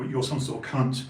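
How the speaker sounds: blunt Essex London speak; Essex London accent. Shown as a demonstration. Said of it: "went back to Essex London speak".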